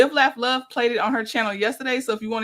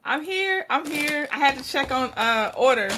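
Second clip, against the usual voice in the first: out of breath. Real, not acted. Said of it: "Sorry, I'm out of breath".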